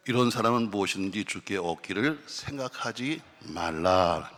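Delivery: loud, measured scripture reading. Real, not acted. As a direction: read the verse out for the congregation to follow. Reads the Bible verse aloud.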